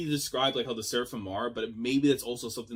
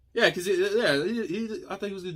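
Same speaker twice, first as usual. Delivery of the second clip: laughing; 9 semitones higher, 6 dB louder than usual. Real, not acted. Laughing at the Hannibal peek.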